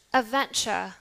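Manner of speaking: "Adventure" with no final R; British non-rhotic. Shown as a demonstration. Teacher repeats for class, British, no R. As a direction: end "Adventure" on "chuh". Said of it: "in British accent, we would say".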